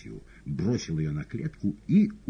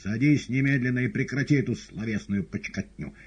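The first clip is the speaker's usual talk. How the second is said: raised, sharp scolding; stern command; 8 semitones higher, 6 dB louder than usual. A narrator's reading. Woland orders the cat, stern raised voice.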